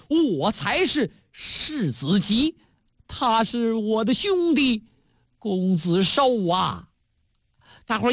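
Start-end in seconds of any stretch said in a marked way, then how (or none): 0.1-6.9 slow, weighty, every word laid down; a doomed prince naming himself with dignity; slow, solemn voice of the wronged prince; grave declaration. Acted. Prince declares true identity.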